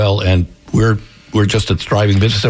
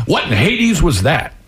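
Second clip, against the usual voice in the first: higher, drawn-out indignant exclamation; Charlie Wall; 5 semitones higher, slower than usual. A narrator's reading. Startled old boss after a near miss, indignant mild shout. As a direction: exclaim it in a raised character voice. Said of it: "Charlie shouted".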